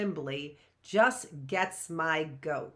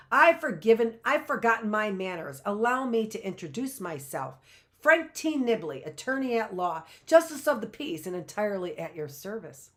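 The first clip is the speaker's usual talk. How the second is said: grand introduction; 3 semitones higher, 4 dB louder than usual. Acted. Frank introducing himself grandly.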